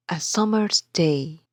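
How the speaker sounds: slow "A summer's day", stressing "sum" and "day"; iambic stress. Shown as a demonstration. Teacher dividing summer into two feet, stress on "sum" and "day". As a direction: beat out "sum" and "day" slowly. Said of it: "We have one foot".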